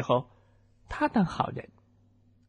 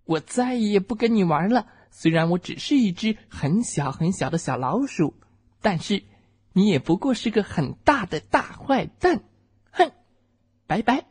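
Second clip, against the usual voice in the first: angry shouting; 5 semitones higher than usual. Acted. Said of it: "我气得大声叫了起来".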